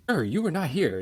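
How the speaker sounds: high, indignant stranger's mock accusation; accusing Italian guy. Italian guy to tourist in food line, mock indignant. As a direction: play the pushy local calling you out.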